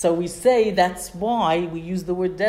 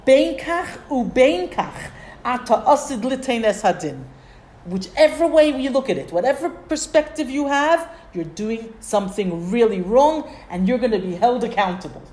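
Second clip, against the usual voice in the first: raised, heated scolding of a colleague; upset rebuke; 4 semitones higher, 4 dB louder than usual. Retold or imitated. Rabbi rebuking Rabbi Akiva, upset and raised. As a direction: scold him hotly for what he did. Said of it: "and he was very upset".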